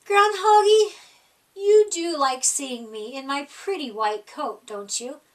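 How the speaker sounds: butter him up like a vain hare; lightly voiced flattering hare; coaxing Hare. Hare sweet-talking Groundhog.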